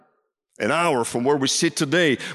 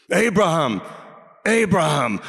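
urgent call, a little raised; crying out; 4 semitones higher than usual. Retold or imitated. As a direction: call the name out to stop someone. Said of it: "cried out the angel of the Lord".

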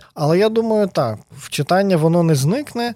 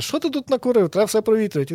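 higher, peeved scolding like a fussy spouse; mock scolding Watson; 5 semitones higher than usual. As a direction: scold the mess like a nagging partner. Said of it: "І Ватсон каже".

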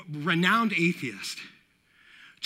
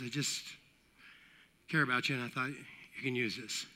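low, soft retold reassurance; gentle earnest quote; 6 semitones lower, 10 dB quieter than usual. Businessman handing Penn a Bible, gently earnest. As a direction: quote him quietly, pitched down.

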